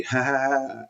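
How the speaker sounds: high mock "ha ha ha"; imitated laughter. Storyteller imitates friends laughing at him, mock high laughter. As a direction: mimic a roomful of stoned laughers. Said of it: "it's like everybody laughing".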